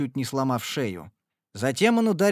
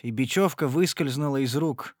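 ordinary delivery

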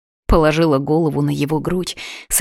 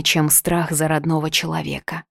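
ordinary delivery, nothing marked

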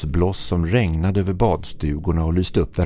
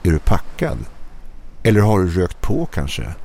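amused questioning; 2 semitones higher than usual. Acted. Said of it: "frågande och road på samma gång".

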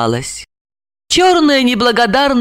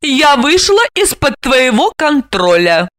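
higher, proud statement; declaring; 7 semitones higher than usual. A narrator's reading. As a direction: declare independence. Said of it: "заявила она". (гордо заявляя)

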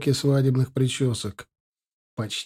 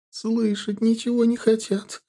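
much higher, slow plaintive whimper; complaining mother, tearful and higher; plaintive sobbing; 9 semitones higher than usual. A narrator's reading. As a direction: whine it through tears. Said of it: "жалобно всхлипывать".

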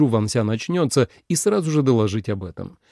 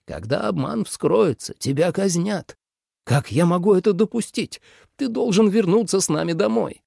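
anxious father; 7 semitones higher than usual. A narrator's reading. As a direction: warn the son with fear beneath. Father warns son of execution. (отец тревожно предупреждает, выше)

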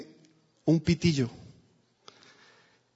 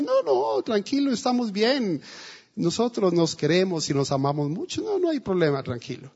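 put-on old wife's voice; 5 dB quieter than usual. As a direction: gently wave off the young man. Old wife politely declines. (la anciana rechaza amable, con voz aguda y suave)

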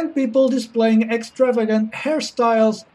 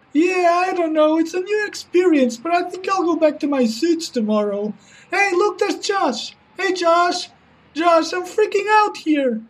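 nervous banker voice; 5 semitones higher than usual. Acted. Banker character continues.

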